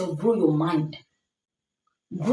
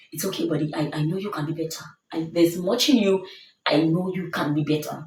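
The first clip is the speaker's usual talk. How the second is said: kind self-talk. Acted. Speaker showing how to talk to yourself after a mistake, kind reassurance. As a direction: reassure yourself kindly, easing off the push. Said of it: "You must speak kindly to yourself".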